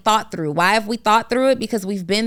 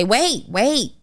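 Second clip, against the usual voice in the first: urgent adviser; 4 semitones higher than usual. Acted. Imagined adviser cutting in.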